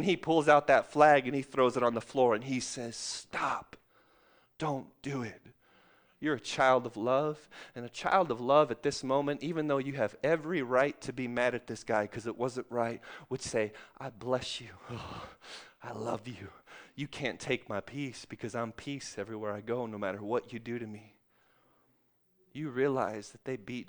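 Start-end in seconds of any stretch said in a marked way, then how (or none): 3.0-5.4 hushed, soft stop; quiet inner voice saying stop; soft command. Retold or imitated. Referee Christ speaks gently. 14.0-21.1 soft, lower, tender; gentle forgiving words, softer; tender blessing. Retold or imitated. Child of love blessing.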